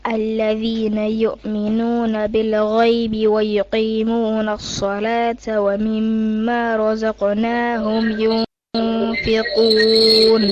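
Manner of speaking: slow, measured tajweed chant; Quran recitation. Acted. Student reciting Baqarah to her teacher, chanted. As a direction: recite each verse as a trained reciter.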